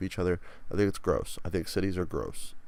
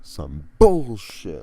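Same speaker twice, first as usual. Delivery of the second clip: exasperated groan; 12 dB louder, much slower than usual. Real, not acted. Complaining about soccer game.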